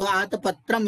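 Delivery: आतपत्रम run together, sounding like aata-patram; run-together pronunciation. Shown as a demonstration. Teacher showing the common slip, आतपत्रम joined up. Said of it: "इस तरह बोलते हैं".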